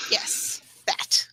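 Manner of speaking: unvoiced sly whisper; conspiratorial whisper to the camera; whispered aside. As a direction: whisper it like a secret. Sneaky aside in video message.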